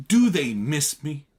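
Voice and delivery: high, loud and slow; ecstatic cry. A narrator's reading. Daisy asks about Chicago friends, ecstatic. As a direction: gush with delight. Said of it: "she cried ecstatically".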